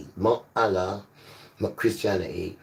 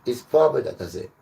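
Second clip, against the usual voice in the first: fervent preaching; 4 semitones higher, 4 dB louder than usual. Real, not acted. Preacher rising to full force.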